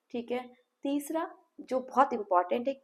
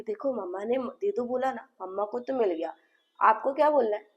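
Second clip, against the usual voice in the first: put-on coaxing the child. Shown as a demonstration. Therapist coaxes child to speak.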